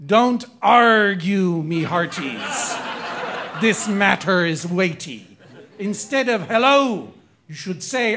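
aggressive pirate. Acted. Host reads pirate trivia rhyme as aggressive pirate. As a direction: growl it out like a pirate captain. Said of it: "a really amazing and aggressive pirate".

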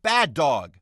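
half-shouted scolding of a dog; mild mock shout. Critics scolding the film like a puppy, mild mock shout. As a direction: scold a dog, pushing it a little. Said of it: "others can only shout".

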